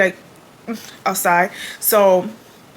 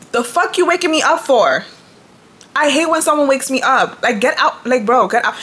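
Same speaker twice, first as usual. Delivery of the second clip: angry; 3 semitones higher than usual. Retold or imitated. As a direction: snap at him for waking you. Woken at four, furious.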